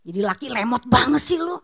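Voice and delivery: slow, scornful grumble, acted out; drawn-out mock contempt; mocking the husband. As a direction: imitate an exasperated inner sneer. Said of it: "di dalam kamu suka mencemooh suami kamu".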